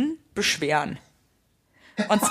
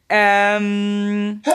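normal talking voice

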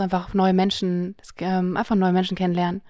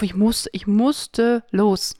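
whispered urge; much slower than usual. Retold or imitated. Innerer Ruf, geflüstert.

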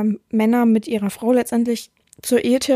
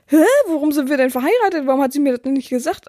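mock bafflement; 2 semitones higher, faster than usual. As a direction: imitate a baffled, deceived partner. Acting a deceived partner's baffled reaction.

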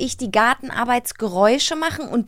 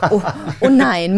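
laughing. Real, not acted. Laughs at long card text.

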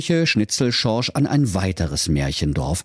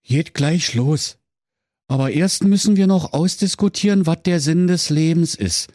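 weary villager; 8 semitones higher than usual. Acted. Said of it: "sagte einer der Dorfbewohner matt".

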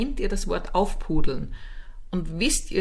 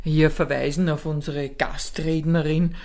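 mock formal announcer; 3 semitones lower than usual. Mock conference host speech.

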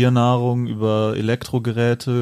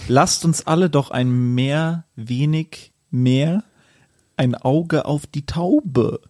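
poem recital. Acted. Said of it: "das Abschlussgedicht, äh, vortragen".

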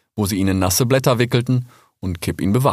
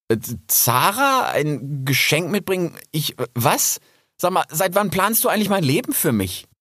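put-on higher, bewildered young fox voice; young fox Rix; 8 semitones higher than usual. Rix answers Kipp. (verwirrter junger Fuchs, höher)

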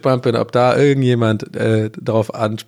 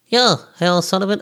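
casting man in an accidentally high, squeaky pitch; mock casting agent, voice slipping up high; 7 semitones higher than usual. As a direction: play him much higher than meant. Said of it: "warum hat er so eine hohe Stimme?".

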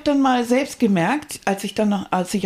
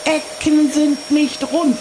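overplayed nagging wife, higher; hammy stage actor; 4 semitones higher than usual. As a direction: scold like a stage farce. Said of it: "theatralischen Einstieg".

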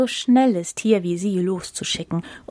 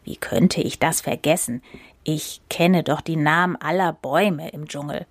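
musing to himself; 4 semitones lower than usual. Acted. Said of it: "dachte bei sich".

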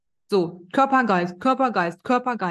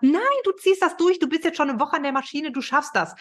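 high-pitched, insistent pep talk; louder boss; 6 semitones higher than usual. Acted. Higher self urging on someone at the machine, louder. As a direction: push them on, starting high and urgent. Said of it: "der andere Chef darf lauter werden".

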